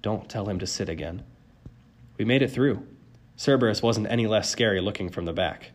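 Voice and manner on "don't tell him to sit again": soft, hushed plea; praying. A narrator's reading. Narrator passing under the monster, praying. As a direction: pray it quietly to yourself. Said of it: "I prayed".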